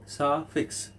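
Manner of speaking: সাফিক্স in two separate beats; split into syllables. Shown as a demonstration. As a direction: break সাফিক্স up as sa-fix. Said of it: "দুটো syllable আছে".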